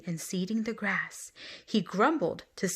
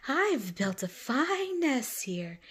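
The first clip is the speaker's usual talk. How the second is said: wasp grumbling; 4 semitones higher, slower than usual. Acted. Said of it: "the wasp grumbled".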